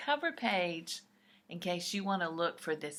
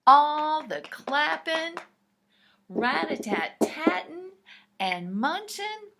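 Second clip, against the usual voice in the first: higher and louder rising list; exasperated list; 7 semitones higher, 9 dB louder than usual. Acted. Pete overwhelmed by all the noise, exasperated. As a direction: pile it up in frustration.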